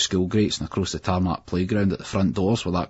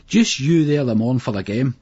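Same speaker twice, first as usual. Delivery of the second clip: higher, louder shout; 5 semitones higher, 6 dB louder than usual. A narrator's reading. Boy shouting after the lorry about tomorrow's game, loud. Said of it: "Billy shouted".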